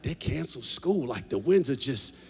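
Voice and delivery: high, loud, half-laughing disbelief; mock worried locals. Locals reacting to the storm, a rising mock squeal. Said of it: "they're like".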